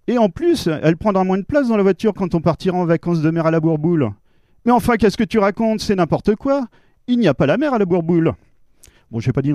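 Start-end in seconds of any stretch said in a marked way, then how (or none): 0.1-4.1 cheerful son voice. Acted. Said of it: "Je vous le mets en scène". 4.7-8.3 higher, exasperated scolding; lightly voiced fed-up wife. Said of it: "Je vous le mets en scène".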